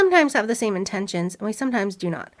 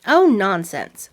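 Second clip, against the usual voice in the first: scornful witch; 6 dB louder, slower than usual. Acted. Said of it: "said the witch".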